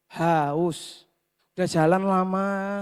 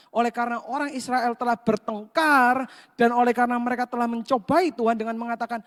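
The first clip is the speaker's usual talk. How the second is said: normal talking voice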